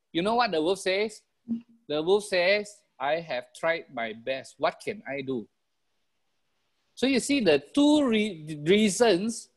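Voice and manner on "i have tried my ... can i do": resigned excuse. Acted. Wolf excuses its failure.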